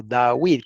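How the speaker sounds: "David" with a w glide before a long ee; w pronunciation. Shown as a demonstration. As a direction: say "David" as da-WEED. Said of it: "se pronuncia".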